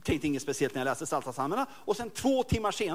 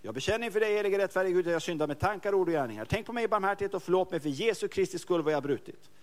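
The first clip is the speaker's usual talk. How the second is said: confession prayer. Retold or imitated. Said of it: "så bekänner han sin synd".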